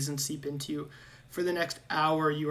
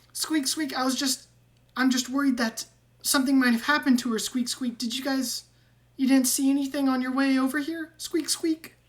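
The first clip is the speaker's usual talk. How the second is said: high, louder squeaky rat fretting over his sister; worried squeaky rat; 9 semitones higher, 6 dB louder than usual. Acted. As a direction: squeak out the worry, much higher. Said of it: "And he goes".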